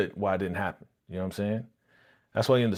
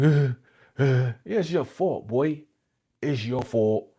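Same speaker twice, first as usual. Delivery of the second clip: pitched-up imitation of tearful blaming; mock teary-eyed; 3 semitones higher, slower than usual. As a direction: whimper the blame, half in jest. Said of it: "teary-eyed. It's like".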